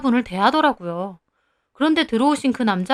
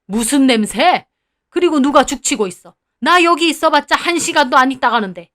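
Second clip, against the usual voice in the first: angry retort; 4 dB louder than usual. Acted. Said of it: "할아버지는 분노하셔서 따지셨어요".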